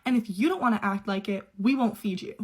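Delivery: a mild mock yell, indignant and emphatic. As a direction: imitate an angry dad laying down the law. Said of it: "He starts yelling at me".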